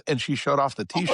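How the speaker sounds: ordinary talk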